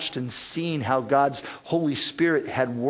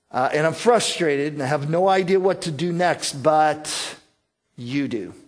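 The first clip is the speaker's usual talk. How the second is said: trusting surrender. Retold or imitated. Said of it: "this is our attitude".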